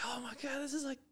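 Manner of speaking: high, half-whispered mock sob of distress; imitating crying fiancée. Fiancée upset about the wedding cookies, mock tearful. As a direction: play her teary panic over cookies, lightly mocking. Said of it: "And she's like".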